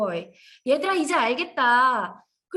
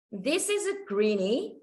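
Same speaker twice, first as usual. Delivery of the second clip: slow teacher talk; much slower than usual. Shown as a demonstration. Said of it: "teacher models slow English".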